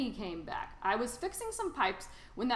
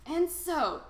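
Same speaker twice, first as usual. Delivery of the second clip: Lorax voice; 8 semitones higher, 6 dB louder than usual. A narrator's reading. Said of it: "said the Lorax".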